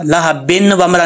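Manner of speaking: लहा बिन with a clear n, then वमरा; wrong unmerged reading. Shown as a demonstration. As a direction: show बिन left unblended before the w. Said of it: "नहीं पढ़ेंगे". (बिन का नून अलग, गलत मिसाल)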